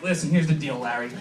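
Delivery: low, soft menace; psychotic cop dad. Acted. Cop dad to evaluator, low mock threat. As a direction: lay down terms, dropping low.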